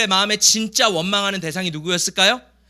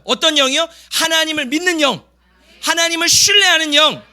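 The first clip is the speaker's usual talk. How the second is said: high, insistent sermon delivery; forceful preaching; 5 semitones higher, 4 dB louder than usual. Real, not acted. Pastor urging the congregation toward a different spirit, preaching forcefully. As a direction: drive each phrase home to the congregation.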